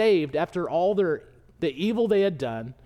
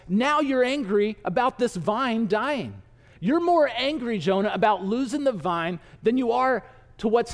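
acted exasperated lecture, pitched up; mild reproof; 3 semitones higher than usual. God tries to teach Jonah something, mildly exasperated. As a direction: press the point as a frustrated teacher.

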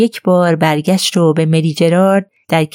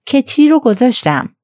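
happy, higher-pitched announcement; cheerful; 7 semitones higher than usual. A narrator's reading. Nurse at the door saying the kettle is on, cheerful. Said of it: "با خوشحالی گفت".

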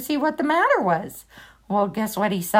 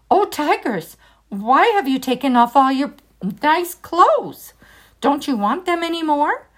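high, calling voice; calling out to tigers; 4 semitones higher than usual. Acted. Ramakrishna calls to the fighting tigers, high and sly. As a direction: call out cheekily.

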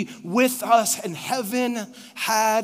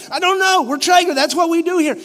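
hammed-up proud; 6 semitones higher, 6 dB louder than usual. Traeger man's cheerful proud reply.

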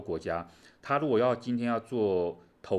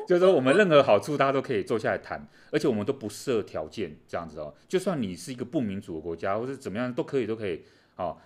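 louder, faster, laughing sales pitch; laughing mock pitch; 5 dB louder than usual. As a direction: sell it like a jovial lender. China's no-strings offer, laughing.

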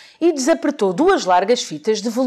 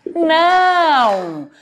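slightly irritated, louder Santa; annoyed Santa; 6 semitones higher, 3 dB louder, much slower than usual. Acted. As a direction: Santa mildly fed up. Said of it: "já um pouco aborrecido".

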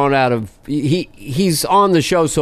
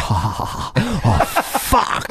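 mock ecstasy; 2 semitones lower, 4 dB quieter, slower than usual. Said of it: "reinforces my opinion. It's like".

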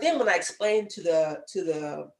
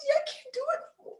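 pitched way up, half-laughing whimper; high crying whine. Retold or imitated. Telling her husband she can't do the insurance job, high whimper. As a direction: squeak it out like you're near tears. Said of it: "I cried every day".

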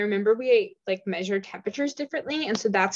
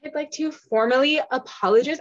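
higher, mock-formal public apology; James Charles impression; 5 semitones higher than usual. Joking apology over oat milk lattes, tentative influencer impression. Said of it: "James Charles, like, impression".

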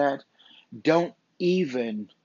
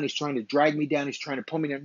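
ordinary delivery

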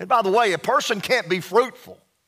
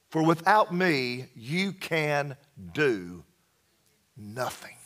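slowing and fading down to a near-silent, much lower "nothing"; hushed dramatic quote; 6 semitones lower, 6 dB quieter, slower than usual. Acted. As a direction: let it sink to almost nothing. Preacher builds to climactic quote.

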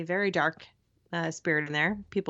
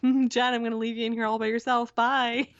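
teasing; 3 semitones higher, 3 dB louder than usual. Retold or imitated. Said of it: "And I'm like".

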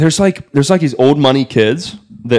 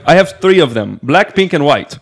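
imitated Russian accent; lightly put-on Russian accent; 3 semitones higher than usual. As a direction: list it off as a boasting Russian woman. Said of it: "very strong Russian accent".

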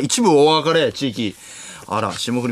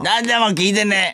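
put-on very high, crude child-star caricature; 芦田愛菜; 6 semitones higher than usual. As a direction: squeak it out as a fake little girl. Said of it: "芦田愛菜さんのモノマネのモノマネ？". (芦田愛菜のものまねのものまね、甲高く)

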